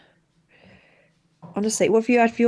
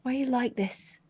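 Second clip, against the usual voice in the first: soft, hushed disbelief; mock-dismayed whisper; 5 semitones higher, 11 dB quieter than usual.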